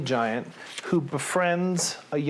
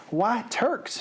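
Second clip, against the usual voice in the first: higher, mildly indignant question; blurted question; 7 semitones higher than usual. A narrator's reading. Offended Sophie to the giant, high blurted question. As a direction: blurt it out, pitched up. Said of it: "she blurted out".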